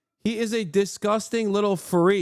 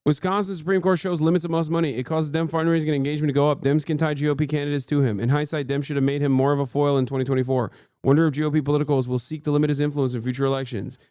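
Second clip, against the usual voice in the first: quick read-aloud; 3 semitones lower, faster than usual. Acted. Reading chat comment aloud.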